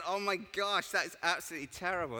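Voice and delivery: high-pitched, hurried horrified reply; hammed-up appalled sympathy; mock shock. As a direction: react as if it's a catastrophe. Acts own shocked reply.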